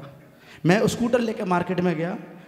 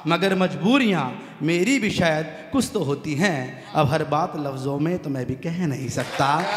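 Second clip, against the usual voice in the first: slow, measured couplet recitation; poem recitation; slower than usual. Acted. Poet reciting his couplet to the audience, slow and measured. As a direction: savour each line for the audience.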